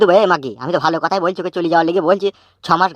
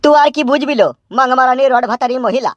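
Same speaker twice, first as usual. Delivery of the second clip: angry scolding; 5 semitones higher than usual. Acted. Father cursing wife in quarrel.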